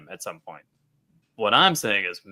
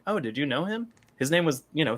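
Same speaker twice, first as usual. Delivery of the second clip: lightly voiced naive little girl, pitched up; childlike innocence; 3 semitones higher, 4 dB quieter than usual. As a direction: imitate a guileless child asking. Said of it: "that childlike innocence to her".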